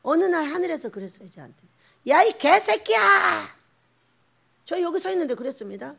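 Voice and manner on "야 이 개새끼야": loud, high shout from heaven; booming mock curse; thundering acted rebuke. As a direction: yell down at the culprit.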